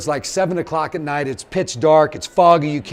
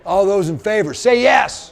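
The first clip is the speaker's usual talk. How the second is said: higher and a bit louder, rallying the room; calling for a response; 4 semitones higher, 3 dB louder than usual. Real, not acted. Asking the audience to shout yes, rallying call. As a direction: whip up the crowd for a yes.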